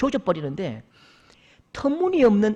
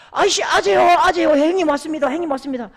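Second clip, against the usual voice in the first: calling out; 7 semitones higher, 5 dB louder than usual. Retold or imitated. Calling father while dragging drunk.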